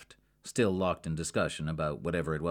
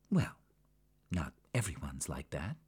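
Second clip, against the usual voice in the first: much softer, hesitant reply; timid; 2 semitones lower, 5 dB quieter than usual. Acted. Sabina answering Jackie, timid and soft. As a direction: shrink back as you say it. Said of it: "Sabina replied timidly".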